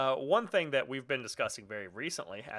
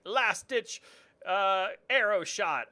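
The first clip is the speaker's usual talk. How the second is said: dying hero cry; 7 semitones higher, 4 dB louder, slower than usual. Retold or imitated. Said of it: "you get to be like".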